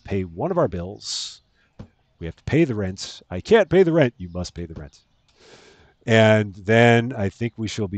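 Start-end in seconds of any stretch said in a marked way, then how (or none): 3.3-4.1 high, loud distressed heroine cry; melodrama damsel. Pretend. Melodrama: heroine pleads over rent. 4.2-5.0 low, soft menacing villain voice; melodrama villain. Pretend. Melodrama: villain demands the rent.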